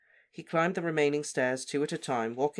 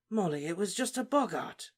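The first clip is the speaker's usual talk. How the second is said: soothing; 6 semitones higher than usual. Acted. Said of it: "he said soothingly".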